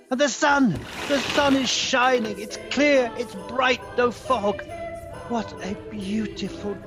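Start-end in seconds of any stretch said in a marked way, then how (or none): 0.1-4.6 breaking into delight at the morning; elated, lifted voice; joyful wonder. Acted. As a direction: exclaim each discovery eagerly.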